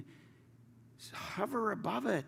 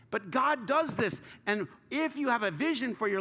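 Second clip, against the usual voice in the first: emphatic preaching; 5 semitones higher, 4 dB louder than usual. Acted. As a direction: lean into each word to proclaim it. Preacher slows and lifts voice.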